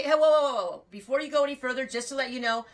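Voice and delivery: high and loud, hands-up whoa whoa whoa; head off the hay seller before he judges you; mock alarmed protest. To a hay seller, a loud, high mock protest. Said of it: "So I say".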